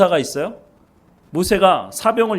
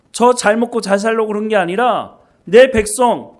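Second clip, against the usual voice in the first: louder, higher aggrieved protest; complaining to God; 4 semitones higher, 3 dB louder than usual. Retold or imitated. Moses complains to God in the desert, raised and aggrieved. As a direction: pour out a grievance to God, voice raised. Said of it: "하나님께 원망하지 않았을까요".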